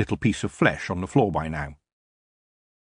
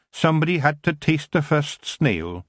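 much higher, Scottish brogue, gruff little Feegle; a wee Scottish warrior scoffing at the elf; tiny Scottish Feegle grumbling about elves; 7 semitones higher than usual. A narrator's reading.

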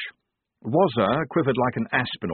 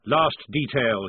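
parade-ground bellow, much higher and louder at the start; 7 semitones higher, 6 dB louder, slower than usual. A narrator's reading. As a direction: bark the order across the squad. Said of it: "he bellowed".

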